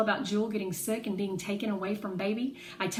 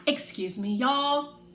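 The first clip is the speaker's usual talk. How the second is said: louder call over the room; 6 semitones higher, 5 dB louder, slower than usual. A narrator's reading. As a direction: cut through the chatter. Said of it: "Mama says in a loud voice".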